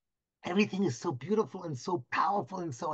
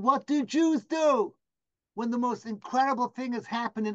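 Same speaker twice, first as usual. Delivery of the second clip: playful buildup; 4 semitones higher than usual. Real, not acted. Playful rhetorical build to joke.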